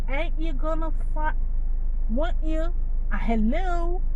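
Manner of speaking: hint of a posh foreign twang; mock foreign accent. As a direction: show off a fake abroad accent in jest. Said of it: "come back with a foreign accent".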